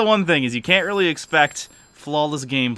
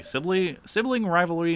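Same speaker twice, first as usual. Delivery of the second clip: high-pitched, incredulous repeat; scoffing sibling, pitched way up; indignant echo; 8 semitones higher than usual. Acted. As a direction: throw the excuse back in a much higher voice.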